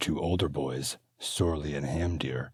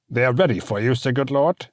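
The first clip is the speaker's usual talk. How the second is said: lightly voiced small servant; 9 semitones higher, 9 dB louder than usual. Albrecht the Midget announces.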